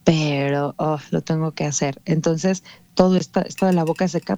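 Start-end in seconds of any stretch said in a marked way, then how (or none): 0.0-2.0 reluctant resignation. Acted. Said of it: "estoy en contra de mi voluntad".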